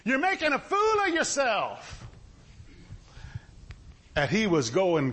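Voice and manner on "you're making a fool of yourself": slow, exasperated reproach building in pitch; mock embarrassed onlookers telling someone off; acted scolding. Acting out crowd scolding the beggar.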